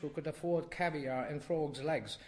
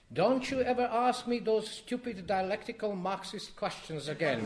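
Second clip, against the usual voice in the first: sharp, loud, higher scolding from a furious mother; angry scolding; 6 semitones higher, 5 dB louder than usual. A narrator's reading. Mother scolding her son for his stupid question, angry and loud. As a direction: bite off every word like a slap.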